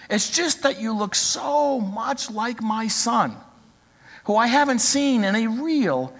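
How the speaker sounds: lightly voiced old woman drawing out her words; a hint of a little old lady. Little old lady pleading with the young man, lightly voiced and slow. Old lady's plea in story.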